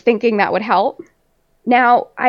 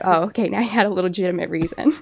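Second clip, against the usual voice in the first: lower, quick, settled retelling; imitating calmed-down dad; 4 semitones lower, 4 dB quieter, faster than usual. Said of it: "now he calms down".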